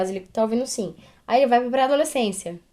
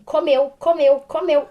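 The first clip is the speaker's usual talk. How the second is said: put-on crying child; 4 semitones higher, 4 dB louder, slower than usual. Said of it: "Ela falou assim".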